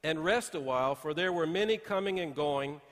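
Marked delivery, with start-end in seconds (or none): 0.0-0.2 scripture reading. Acted. Pastor reads scripture aloud. 0.9-2.8 scripture reading. Acted. Pastor reads scripture aloud.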